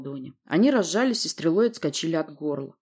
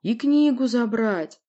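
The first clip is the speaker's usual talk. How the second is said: loud, slow, high groaning command; drawn-out, insistent monster wail; monster's moan; 6 semitones higher, 5 dB louder, slower than usual. Acted. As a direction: moan it out loudly. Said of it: "простонал Рык".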